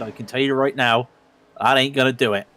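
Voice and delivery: mildly imitated traditional West Country accent; half-hearted West Country tradesman; understated rural West Country accent. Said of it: "the most traditional West Country accent".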